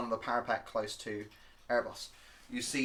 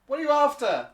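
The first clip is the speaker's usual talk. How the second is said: high, louder kobold demand; squeaky suspicious challenge; 9 dB louder than usual. Acted. Kobold guard questioning the party's motive: high squeaky voice. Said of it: "you hear this kind of".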